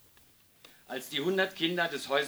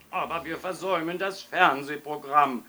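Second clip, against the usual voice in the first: louder, mildly whining protest; wailing complaint; 3 semitones higher, 7 dB louder than usual. A narrator's reading. Fathers missing television, wailing to the policeman. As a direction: moan it loudly, sorry for yourself. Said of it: "jammerten die Väter".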